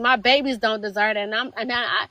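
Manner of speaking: real hurt, holding back emotion; getting emotional. Real, not acted. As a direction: struggle to keep composure. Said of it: "I'm sorry, I'm getting emotional".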